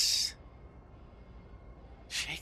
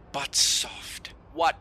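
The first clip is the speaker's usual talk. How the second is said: mock Shakespeare recital; much slower than usual.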